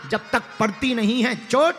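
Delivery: loud, emphatic sermon delivery; forceful preaching. Real, not acted. Preacher urging the crowd not to fear struggle, forceful. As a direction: drive each point home with force.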